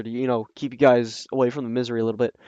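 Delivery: quick, hurried read-through. Shown as a demonstration. Reader speeding up for her listeners, fast. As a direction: rush the words along to get it over with. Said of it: "I'll try to read a little faster".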